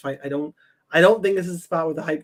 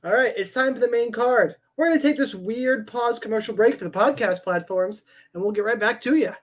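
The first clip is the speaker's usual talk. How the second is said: upbeat, slightly raised salesman pitch; slick used car salesman; 4 semitones higher than usual. Pretend. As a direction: hype it up like a cheesy car ad. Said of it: "That's my car, car salesman pitch".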